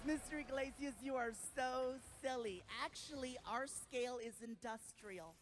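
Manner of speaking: polite nurse, slowing at the end; amused nurse. Retold or imitated. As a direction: gently humor the patient in a nurse voice. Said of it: "She starts laughing. She goes".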